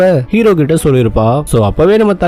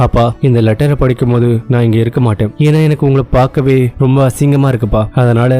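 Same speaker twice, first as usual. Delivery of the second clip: low, subdued apology; remorseful letter reading; 5 semitones lower than usual. Acted. Son's farewell letter to his father, understated remorse. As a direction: read it lower and evenly, with a touch of regret.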